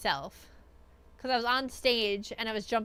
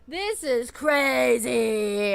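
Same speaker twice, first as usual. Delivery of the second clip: awestruck; 6 dB louder, much slower than usual. Retold or imitated. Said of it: "I was like".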